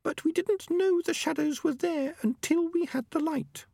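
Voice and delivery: very high, small female rat voice; Peaches, young female rat. A narrator's reading. Peaches tells the elders about the young rats' fear, very high-pitched. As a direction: speak up in a tiny high-pitched voice.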